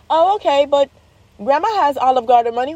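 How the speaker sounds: put-on high-pitched kid working an angle; imitated child's eager follow-up; bargaining child. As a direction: pipe up like a hopeful little girl.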